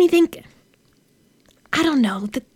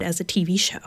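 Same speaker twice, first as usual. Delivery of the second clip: whispering; 4 semitones lower, 9 dB quieter, faster than usual. Acted. Trailing off, unvoiced.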